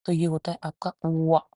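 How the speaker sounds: वा with lips rounded as if to whistle; rounded w sound. Shown as a demonstration. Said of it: "होंठों को ऐसे बनाते हैं". (होंठ गोल करके वा)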